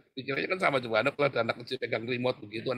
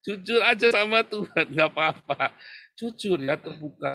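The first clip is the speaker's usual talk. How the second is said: raised, higher preaching push; loud urging; 7 semitones higher, 7 dB louder than usual. Real, not acted. Preacher urging the congregation to be honest, loud. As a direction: drive it home to the room.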